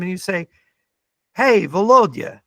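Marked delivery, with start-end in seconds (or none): 1.3-2.4 put-on a faint, half-hearted Russian accent addressing Putin; mock Russian accent. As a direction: lightly put on a Russian accent, slowing on the question. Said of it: "you gotta work on that Russian accent".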